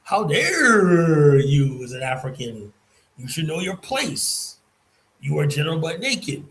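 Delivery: slow, indignant, hammed-up "how dare you"; mocking their offended tone; mock outrage. Mocking Black Americans scolding Africans, in hammed-up outrage. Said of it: "You, uh".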